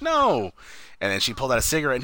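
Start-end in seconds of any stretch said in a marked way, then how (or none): 0.0-0.5 high-pitched retold refusal; high, protesting mimicry; mock protest. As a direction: imitate a flustered objection. Retold objection to her drinking.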